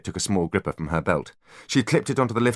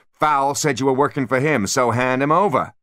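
loud, higher, threatening; angry demand; 8 semitones higher, 5 dB louder than usual. A narrator's reading. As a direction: bark the order. Spyro demands angrily.

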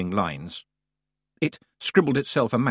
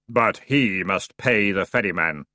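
voice of crypts; 3 semitones lower than usual. A narrator's reading. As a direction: accuse from the tomb. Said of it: "he said accusingly, in a voice of crypts and graveyards".

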